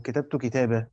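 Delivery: كتابة said as "kitabaa", without n; pausal alif. Shown as a demonstration. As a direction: end كتابة on an open long vowel. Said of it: "لما أجي أقف عندها أقول".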